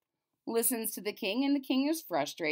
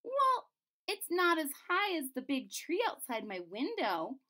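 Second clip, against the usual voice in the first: cartoon princess; 6 semitones higher than usual. Princess voiced.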